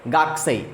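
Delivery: गाकसेई with the middle u dropped, gak-sei; gakusei, u dropped. Shown as a demonstration. Teacher showing students how गाकुसेई is said. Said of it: "pronunciation करेंगे गाकसेई".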